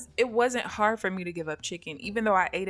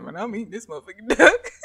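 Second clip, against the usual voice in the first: louder, laughing defiance; defiant dad laughing; 9 dB louder, faster than usual. Retold or imitated. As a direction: refuse with a grin. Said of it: "He said".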